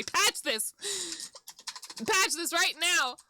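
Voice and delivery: insistent, drawn-out angry order; angry demand. Real, not acted. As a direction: demand a fix from the game's makers. Angry demands to game's maker.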